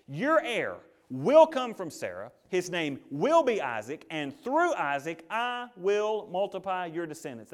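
slow, emphatic pronouncement; God. Acted. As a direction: spell out the promise word by word, firmly. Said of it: "but God is emphatic".

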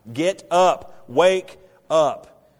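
loud, urgent cry to wake him; frantic wake-up shout. Acted. Disciples yelling at sleeping Jesus, loud and frantic. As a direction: shake him awake with your voice.

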